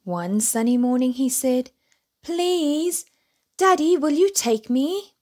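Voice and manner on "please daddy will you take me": high, eager little cub voice; little bear pleading. A narrator's reading. Little bear begging his daddy to take him, high and eager. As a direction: beg sweetly like a small child.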